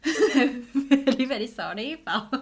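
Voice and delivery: put-on laughing through a Taiwanese accent. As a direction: Taiwanese accent, cracking up mid-line. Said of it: "Taiwanese accent activated".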